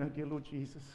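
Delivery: soft, weary groan of exasperation; a hint of a wife rolling her eyes; exasperated wife. Wife answering her husband's romance, mock weary groan. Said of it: "she may be going".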